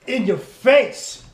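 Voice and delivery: slow, loud, high clown shout; drawn-out goofy yell; silly clown. Acted. Goofy show intro shout.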